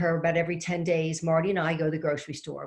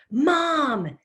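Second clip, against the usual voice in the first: much higher, louder mock yell of "Mom!"; imitated yell; 10 semitones higher, 6 dB louder than usual. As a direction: bellow "Mom!" an octave up. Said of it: "louder octave".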